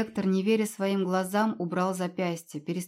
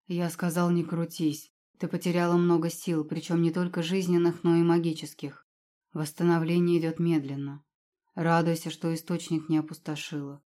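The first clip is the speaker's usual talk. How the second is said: a touch of strict rector authority; stern and commanding; 2 semitones lower than usual. Acted. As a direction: lecture her coolly, leaving no room to argue. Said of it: "Голос ректора обрёл былую строгость и властность". (лёгкая строгость и властность)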